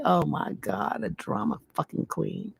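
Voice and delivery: breathy whispered jab under the breath; whispered sarcastic aside. Real, not acted. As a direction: mutter it like a snide aside. Muttered aside while reading letter.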